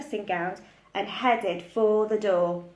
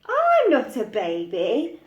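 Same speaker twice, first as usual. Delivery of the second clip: muttered; 2 semitones higher, 5 dB louder than usual. Acted. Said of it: "muttered the little one".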